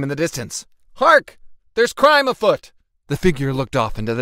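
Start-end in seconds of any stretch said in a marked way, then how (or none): 0.9-2.7 much higher, loud, hammy cry; costumed hero calling out at a distant scream, hammed-up loud; heroic alarm. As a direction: announce the crime like a cartoon hero.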